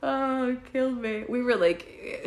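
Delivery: talking through laughter; laughing. Real, not acted. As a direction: speak while still laughing. Laughing after punchline.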